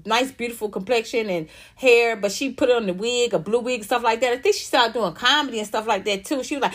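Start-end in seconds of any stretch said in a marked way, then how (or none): none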